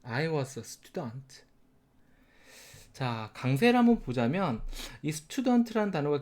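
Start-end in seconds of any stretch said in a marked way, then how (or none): 0.0-1.4 drawn out, each word separate, softer; very slow demo, word by word. Shown as a demonstration. Teacher modelling the sentence for students, very slow. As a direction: spell it out for learners, very slow. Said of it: "발음은".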